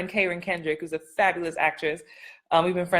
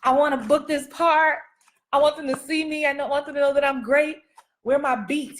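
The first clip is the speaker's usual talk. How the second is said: a touch higher, earnest inner voice of a striving actor; mock eager actor; 5 semitones higher than usual. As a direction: lightly play the hungry auditioner. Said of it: "'Cause you're like".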